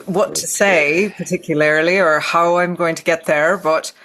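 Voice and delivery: improvised Irish accent with halting pauses; Irish accent attempt. Shown as a demonstration. Guest improvising for the hosts in an unsure Irish accent. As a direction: feel your way into an Irish accent. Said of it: "this is what's coming out of my mouth now".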